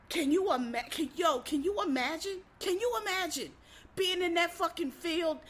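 high-pitched appalled disbelief; incredulous. Retold or imitated. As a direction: plead with them to picture the outrage. Imagining the slaves' stolen freedom.

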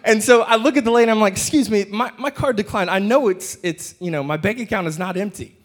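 flustered customer pleading with the cashier; exasperated, hurried complaint; flustered plea. Retold or imitated. Flustered at the checkout.

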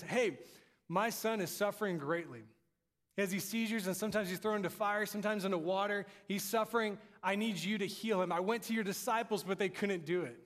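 a touch of desperation, pushing on without letting up; urgent plea. Acted. Father begs Jesus to heal his suffering son, urgently.

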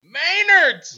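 excited cheer. Real, not acted. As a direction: cheer the name. Cheering new job.

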